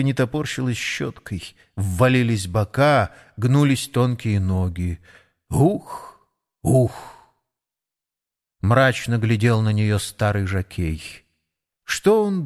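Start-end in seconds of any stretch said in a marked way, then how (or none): 5.5-7.2 weary horse puff. Acted. Horse's weary snort, voiced by reader.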